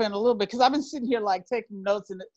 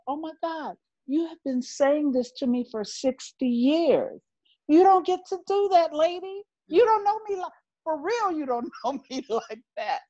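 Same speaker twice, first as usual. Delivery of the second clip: higher, rising indignation; indignant outburst; 8 semitones higher than usual. Retold or imitated. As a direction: let the retold anger climb high. Retold furious thoughts about her aunt.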